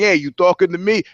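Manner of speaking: a light New York tough-guy "you talking to me"; a hint of New York accent on the De Niro line. Shown as a demonstration. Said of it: "they do it with the New York thing".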